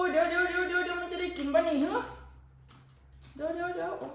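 quick high calls of wait; hurried wait wait. Real, not acted. Mother stops child mid-task.

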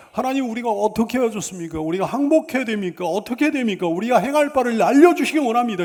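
acted pleading, building at the end; earnest prayer. Preacher models asking God what to do, earnest prayer. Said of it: "이렇게 간절히 기도하는".

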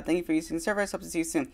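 chirpy phone clerk, rattling it off; shop clerk voice. Acted. Timmy ends the phone call.

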